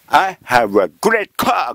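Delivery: put-on slow, proud Japanese-accented English. Prime minister proudly addressing world leaders in slow Japanese-accented English. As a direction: announce it slowly, word by word, in katakana English. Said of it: "鈴木善子は言いました".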